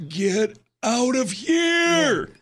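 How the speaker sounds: high, drawn-out mock yell; imitated yelling wife. Co-host imitates his wife yelling at him from the background, mock yell. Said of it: "my wife is yelling in the background".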